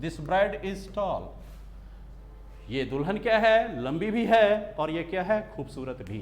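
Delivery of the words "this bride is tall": drawn out, word by word; slow dictation. Shown as a demonstration. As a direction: read it slowly so they can write it down. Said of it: "इस sentence को अगर धीरे-धीरे तोड़ोगे आप".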